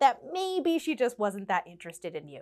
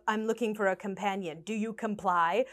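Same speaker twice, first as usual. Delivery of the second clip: flat, softer robot monotone; mechanical, lightly voiced robot; robotic voice; 3 semitones lower, 4 dB quieter than usual. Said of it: "very robotic in his approach".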